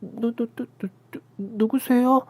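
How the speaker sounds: put-on high, halting stammer of a startled young wife; flustered stammer. A narrator's reading. Startled sister-in-law stammering at the intruding aunt. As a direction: stutter in panic, slowly. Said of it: "당황해서 어쩔 줄을 몰라 했습니다".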